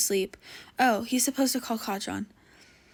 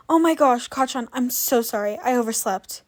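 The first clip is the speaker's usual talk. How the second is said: flustered; 2 semitones higher, 6 dB louder than usual. Acted. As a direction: blurt out the apology. Panicked apology for oversleeping.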